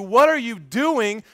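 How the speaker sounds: God demanding an answer, slow and pointed; frustrated. Retold or imitated. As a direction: drag it out, fed up. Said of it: "the frustration of God saying".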